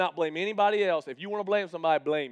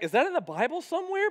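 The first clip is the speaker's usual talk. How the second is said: awed; 11 semitones higher than usual. Retold or imitated. His awed reaction to coach.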